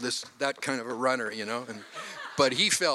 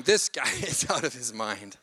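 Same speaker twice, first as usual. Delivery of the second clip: imagined listener; 4 semitones lower than usual. Retold or imitated. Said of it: "you'd be thinking".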